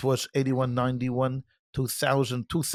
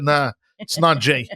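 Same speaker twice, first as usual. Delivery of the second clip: put-on Boston accent. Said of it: "a big Boston accent".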